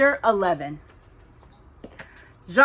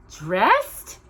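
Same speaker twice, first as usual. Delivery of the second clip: joyful; 2 semitones higher, 6 dB louder than usual. Acted. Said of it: "Cinderella said joyfully".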